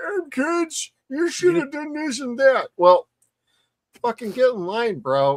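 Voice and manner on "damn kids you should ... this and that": put-on very high, grumpy, cranky old codger voice. Imagining themselves old someday, telling off the kids: imitating a grumpy old codger. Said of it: "we're gonna be old codgers".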